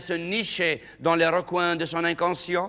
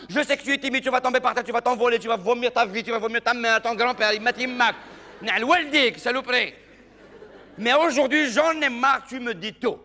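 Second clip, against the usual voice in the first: put-on exasperated girlfriend; 4 semitones higher than usual. Girlfriend pleading with shy Mohamed, high and exasperated. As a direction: beg him to finally look at you. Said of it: "Elle lui dit".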